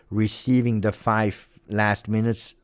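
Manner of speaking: ordinary delivery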